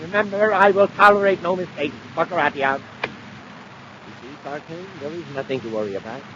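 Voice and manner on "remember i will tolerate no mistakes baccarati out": barked orders. Acted. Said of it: "barks instructions".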